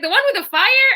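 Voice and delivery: high, bewildered question; imitating a roommate who doesn't get it; puzzled roommate. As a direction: play the confused friend guessing. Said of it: "she's like".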